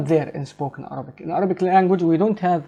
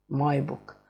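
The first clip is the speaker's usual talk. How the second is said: very quiet gloss; 3 semitones lower, 9 dB quieter than usual. Shown as a demonstration. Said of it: "repeating gloss".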